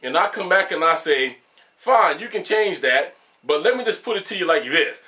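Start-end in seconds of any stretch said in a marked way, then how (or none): 1.8-5.0 measured, firm reply that could pass for angry; stern written reply. Shown as a demonstration. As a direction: state it deliberately, as if typed out. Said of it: "Now, to you, in writing form".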